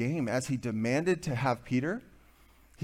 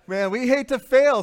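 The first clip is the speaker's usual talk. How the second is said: loud, high cry, full force; preaching shout; 10 semitones higher, 9 dB louder than usual. Real, not acted. Preacher calling out to the men, loud and high. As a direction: hit this line hard and high from the pulpit.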